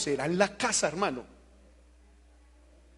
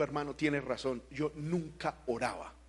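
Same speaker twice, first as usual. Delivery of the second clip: retold admission; 4 semitones lower, 8 dB quieter than usual. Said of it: "vino y me dijo".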